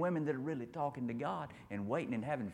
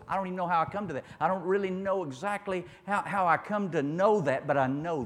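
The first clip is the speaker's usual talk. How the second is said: emphatic preaching; 5 semitones higher, 5 dB louder than usual. Real, not acted. Preaches with rising force.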